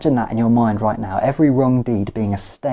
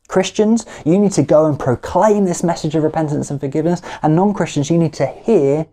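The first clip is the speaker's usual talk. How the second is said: higher, faster, urgent call to action; rising exhortation; 4 semitones higher, faster than usual. Real, not acted. Preacher urging his Christian listeners to go, fervent. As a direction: push the charge out fast and rising.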